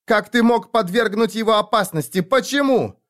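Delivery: high pleading cry; desperate crying out. Acted. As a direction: throw the question at him in anguish. Desperate screaming at father.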